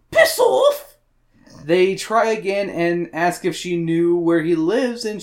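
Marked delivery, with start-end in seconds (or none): 0.1-1.0 high, loud British brush-off; curt, comic British woman, pitched way up; British accent. Acted. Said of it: "I gave her a British accent".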